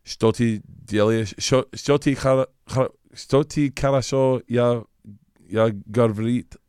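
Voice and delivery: halting, slow attempt at Russian phrases; speaking broken Russian. Shown as a demonstration. Asked on the podcast to speak Russian, halting broken Russian. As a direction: stumble through "Что ты делаешь?" in shaky Russian. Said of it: "Speak some Russian right now".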